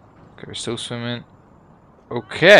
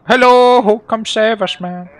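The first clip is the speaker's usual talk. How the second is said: high, loud mock cry for help; drawn-out, high-pitched shout to a rescuer; calling swimmer; 10 semitones higher, 8 dB louder than usual. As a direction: call out like a stranded swimmer, hammed up. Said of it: "There's some random people swimming around here like".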